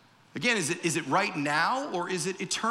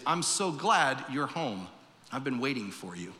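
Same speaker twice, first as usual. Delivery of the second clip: tender welcome; 5 semitones lower than usual. Acted. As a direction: hush it down like a father greeting a lost child. God welcomes the returning sinner.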